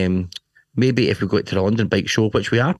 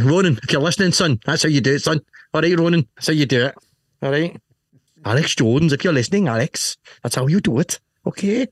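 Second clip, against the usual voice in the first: cheeky call out to rivals; 6 semitones higher than usual. Real, not acted. Calling out to named rivals.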